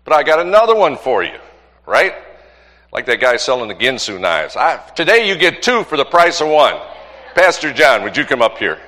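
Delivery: loud, high announcer energy; hyping the crowd. Real, not acted. Pastor calling up the next speaker to the crowd, loud and hyped. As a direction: pump up the congregation.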